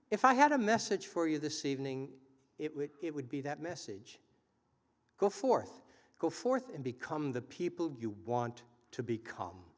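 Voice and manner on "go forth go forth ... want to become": rousing speech delivery; podium speech. Acted. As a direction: exhort the audience from the podium. Closing exhortation of speech.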